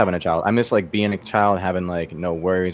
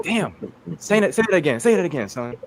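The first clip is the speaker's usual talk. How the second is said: dad's voice; 7 semitones higher than usual. Retold or imitated. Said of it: "Dad was like".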